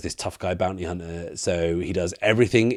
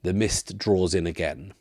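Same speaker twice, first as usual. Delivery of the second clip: game master's scene setting. Acted. Game master narrates mist closing as something approaches, hushed scene setting.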